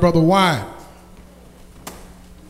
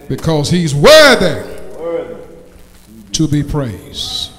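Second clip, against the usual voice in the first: measured sermon proclamation with long pauses; preaching. Acted. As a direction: proclaim it to the congregation. Preacher proclaims after the song.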